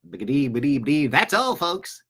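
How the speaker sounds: playful, lightly done cartoon stutter voice; cartoon sign-off impression. Host imitating a cartoon ending for viewers, stuttering playfully. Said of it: "Mel Blanc did all those voices".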